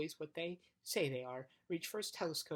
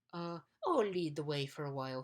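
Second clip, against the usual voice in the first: pompous bug; 6 dB louder than usual. Acted. Bug voiced, louder.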